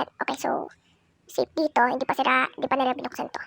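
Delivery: soft, low hushed voice. Real, not acted. Hiding from Granny, telling viewers softly. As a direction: keep it down while hiding.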